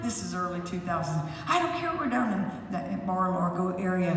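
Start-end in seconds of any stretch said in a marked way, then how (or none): 1.5-4.1 mock ranting boss. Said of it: "I was like".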